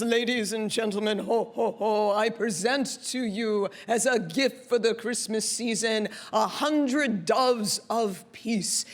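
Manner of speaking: lightly imitated booming announcer; a hint of grand, jolly stage proclamation; Santa. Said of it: "He has a booming voice".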